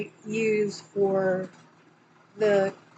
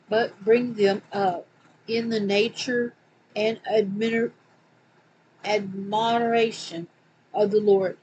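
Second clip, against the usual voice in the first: scripture reading. Acted. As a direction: read it out like a preacher. Reads scripture quote aloud.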